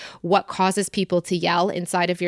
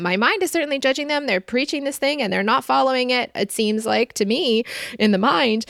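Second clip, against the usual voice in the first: voice of the mind; 6 semitones higher than usual. Pretend. Voicing the judging mind's answer.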